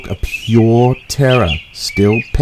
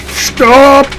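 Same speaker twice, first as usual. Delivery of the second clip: high, slow terrified wail; 6 dB louder, much slower than usual. Acted. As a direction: wail it out in panic. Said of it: "he wailed".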